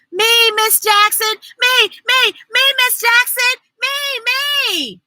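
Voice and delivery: high, eager classroom calling. A narrator's reading. Libby begging Miss Jackson to pick her, eager. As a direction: bounce on every me.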